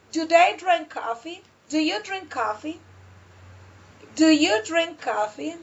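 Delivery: "drink coffee" lifted at the end of each question; rising question intonation. Shown as a demonstration. Teacher models yes-no questions, intonation going up. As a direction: let "coffee" climb at the close. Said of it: "put the intonation up".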